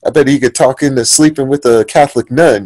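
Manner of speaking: a hint of a Southern promoter-basher; Southern accent. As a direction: put on a slight Southern accent. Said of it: "he was from the South".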